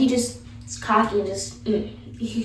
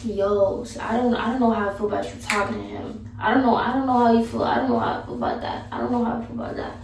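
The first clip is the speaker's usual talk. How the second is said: put-on insecure boyfriend; 4 dB quieter, faster than usual. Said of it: "who be like".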